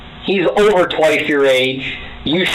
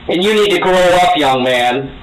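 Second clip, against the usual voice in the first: scolding with a raised voice. Real, not acted. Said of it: "can you please stop raising your voice".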